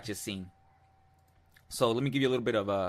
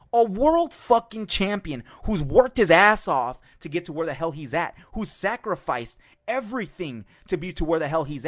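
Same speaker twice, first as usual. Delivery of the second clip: loud, higher, with slowed and punched words; angry rant; 4 semitones higher, 4 dB louder than usual. Real, not acted. Defending Keith Thurman against the heckler, loud and furious. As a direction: bark him out of the sport. Ranting at the rude fan.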